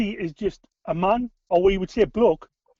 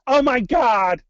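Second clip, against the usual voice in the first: imitating a friend's put-on American accent; teasing American accent impression; mock American accent; 2 semitones higher, much slower than usual. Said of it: "she just went into an American accent".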